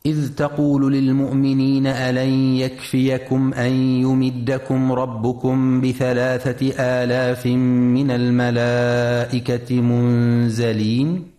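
measured Quranic cantillation; Quran recitation. Acted. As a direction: recite it, drawing out the long vowels.

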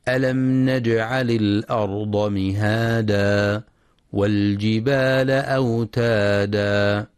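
slow, measured tajweed chant; Quran recitation. Acted. Teacher reciting the verse to be studied, slow tajweed recitation. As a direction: recite slowly with drawn-out long vowels.

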